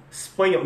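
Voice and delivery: "espanhol" as "spanhol"; espanhol without E. Shown as a demonstration. Teacher repeating the drill, "espanhol" minus E. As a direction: drop the E opening "espanhol". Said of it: "treinar, tirar o E".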